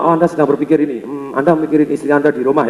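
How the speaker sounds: lightly voiced low-pitched mind reader; a hint of a paranormal pondering someone's thoughts; psychic. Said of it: "psychic itu seorang paranormal".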